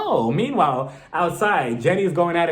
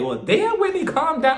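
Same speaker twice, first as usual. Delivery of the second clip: mock calm down; 10 semitones higher than usual. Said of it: "I'm just like".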